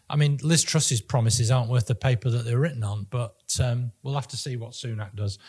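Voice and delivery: slightly breathless, running out of air; out of breath. Real, not acted. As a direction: talk while short of breath. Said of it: "I'm out of breath".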